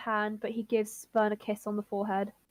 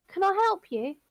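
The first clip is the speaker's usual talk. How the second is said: put-on higher-pitched Cockney boy; Cockney accent; 7 semitones higher, 3 dB louder than usual. Milo turns to a stranger, in a Cockney accent. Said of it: "It's got a Cockney accent".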